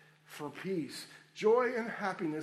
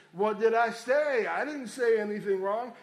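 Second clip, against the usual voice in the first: put-on defensive teen; 6 dB louder than usual. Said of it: "and the teen says".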